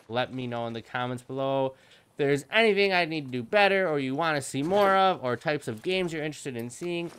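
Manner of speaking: flat, even robot-like delivery. Real, not acted. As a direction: speak evenly like a robot to be clear. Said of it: "I'm sorry I talk like a robot".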